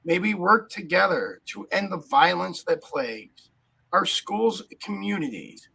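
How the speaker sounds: slow, grave recited verse; solemn poem reading. Acted. Host opens the show reciting a somber poem.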